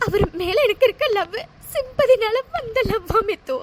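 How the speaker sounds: sobbing out the words; heartbroken, crying it all out; tearful, despairing; weeping. Acted. Heartbroken woman weeps.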